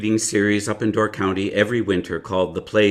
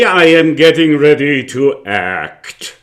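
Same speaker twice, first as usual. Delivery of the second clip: slow theatrical whisper; 4 semitones higher, 7 dB louder than usual. Acted. Actor explaining his preparation to the visitor, slow whisper. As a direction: hush it like a sacred secret.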